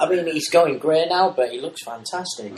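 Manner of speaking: muffled, spoken into a mug; words muffled by a cup. Real, not acted. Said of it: "I was speaking into my cup there".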